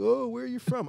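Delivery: high, loud mock-curious question; exaggerated high-pitched curiosity; mocking small talk. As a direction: mimic a tiresome date's small talk. Mimics dates' tiresome small-talk questions.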